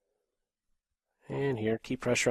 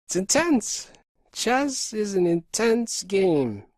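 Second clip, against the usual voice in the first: excited; 7 semitones higher, slower than usual. Real, not acted. Reacting to tense game.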